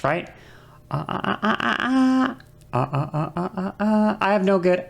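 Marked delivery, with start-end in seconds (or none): 0.9-4.2 short "uh" notes stepped up and down; adjusting pitch. Shown as a demonstration. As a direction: demo pitch changes on repeated uhs. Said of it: "we all know how to adjust pitch".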